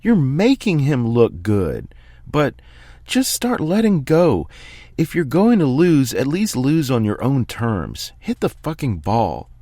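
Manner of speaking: a calm man finally coming apart, yelling at his player; screaming coach. Acted. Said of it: "then starts screaming".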